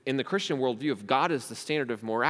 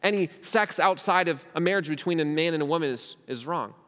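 higher, louder defensive protest; defiant objector; 5 semitones higher, 5 dB louder than usual. Retold or imitated. Another critic defending their desires to the preacher, defiant and raised. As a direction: push back hard, offended and defiant. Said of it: "Someone else could look at me and say".

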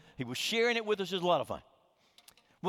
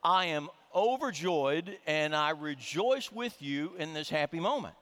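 mock formal joy; 3 semitones lower than usual. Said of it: "what she was really saying is".

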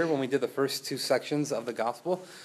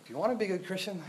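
softer, coaxing insinuation on "if you wanna be a good Christian"; a legalist whispering a rule; quiet legalist insinuation; 4 semitones higher, 6 dB quieter, faster than usual. Acted. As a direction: lean in and murmur the condition. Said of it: "They say".

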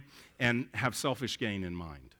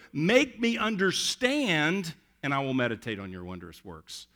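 dependent plea. Shown as a demonstration. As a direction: lean on every word, begging. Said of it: "he says it in a dependent way".

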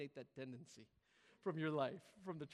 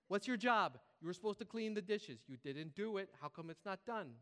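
lightly voiced scolding mom; 4 dB louder than usual. Mom questions her kid about undone dishes, mock scolding. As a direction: caricature mom, loud opening question then easing off. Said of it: "Why am I doing this voice?".

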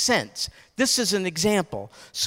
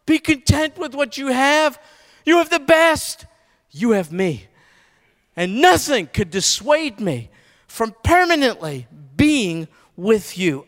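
voice of God answering; 2 semitones higher, 4 dB louder than usual. Acted.

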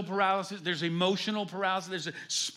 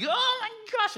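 mock girlish squeal; 5 dB louder than usual. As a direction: imitate the girls gasping in shock. Girls freak out at the reveal.

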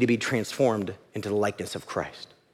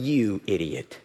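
low, disparaging inner voice; low, condemning voice in the head; accusing inner enemy; 3 semitones lower than usual. Acted. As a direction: put them down in a low voice. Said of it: "my enemy saying something like".

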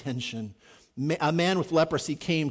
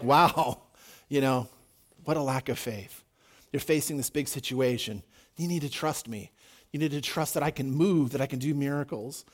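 disappointed; 2 semitones lower than usual. Acted. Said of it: "he's amazed at like".

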